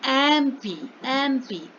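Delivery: एमपी repeated as "em-pee", stressing the opening ए vowel; pronunciation demo. Shown as a demonstration. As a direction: show how एमपी begins with ए. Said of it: "उसका उच्चारण".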